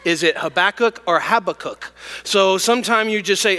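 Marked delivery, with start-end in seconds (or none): 0.4-1.0 Habakkuk stressed on the second syllable, huh-BACK-uk; pronunciation variant. Shown as a demonstration. Pastor asks congregation how the name goes, pronunciation variant. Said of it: "knows how his name is pronounced". 1.2-1.9 Habakkuk stressed on the first syllable, HAB-uh-kook; pronunciation variant. Shown as a demonstration. Pastor offers the other way to say it, pronunciation variant. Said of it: "Nobody knows really what the emphasis is".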